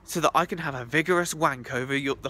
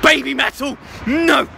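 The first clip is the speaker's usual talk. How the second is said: loud, high cry of refusal; mock horror shout; 7 semitones higher, 8 dB louder than usual. Hearing a band, hammed-up loud protest. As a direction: yell it in playful disgust.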